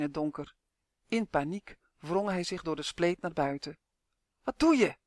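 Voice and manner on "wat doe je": higher, louder urgent hiss; hissed alarm. A narrator's reading. Torg to panicking Justin, hissing urgently. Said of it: "siste Torg".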